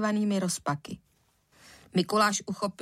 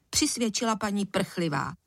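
ordinary delivery

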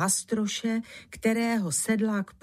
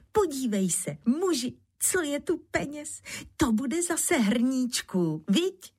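high, delighted wife; joyful calling; 7 semitones higher than usual. A narrator's reading. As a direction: show off the money with glee. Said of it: "hned volala radostně". (radostné vysoké volání)

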